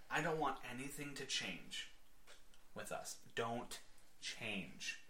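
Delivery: earnest plea. Acted. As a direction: quietly ask it, pausing between phrases. Acts Betty's earnest plea.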